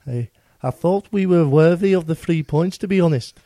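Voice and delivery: put-on light Scouse accent as Kevin Nolan; a hint of Liverpool in Nolan's voice. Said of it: "Is he, he's Scouse?".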